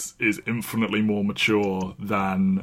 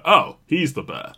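higher-pitched "oh" of recognition; mock realisation; 5 semitones higher than usual. Film fan reacting to a too-big Bear Jew, mock realisation. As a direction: lift it as if the penny drops. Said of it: "too big to be like".

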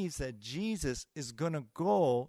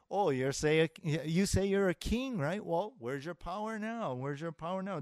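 imitated soldiers' taunt, pitched up; mocking; 3 semitones higher than usual. Soldiers taunting Jesus on the cross, mocking. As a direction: jeer as if calling his bluff. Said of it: "they mock him".

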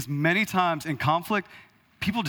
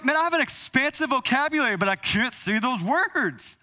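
mock stubborn congregant; 8 semitones higher than usual. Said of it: "'Cause you're like".

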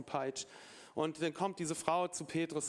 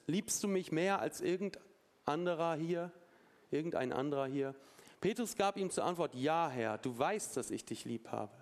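scripture reading. A narrator's reading. Preacher reads Jesus questioning Peter, measured scripture reading. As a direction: read it as a solemn dialogue story. Reads Bible story aloud.

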